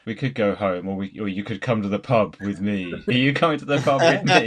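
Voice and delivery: mock Van Damme speech. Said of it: "I'm gonna give you that speech".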